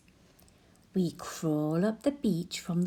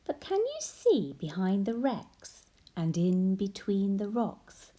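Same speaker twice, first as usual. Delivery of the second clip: put-on bright, sing-song read to children; lively story reading; 2 semitones higher than usual. A narrator's reading. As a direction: read it like a bedtime picture book. Reads picture book to child.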